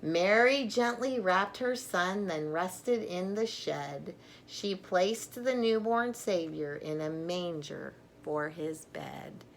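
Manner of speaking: bright, expressive picture-book read-aloud; reading to children. Acted. Grandmother reading an alphabet Christmas book to children, storytelling voice. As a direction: read it like a bedtime book for little ones.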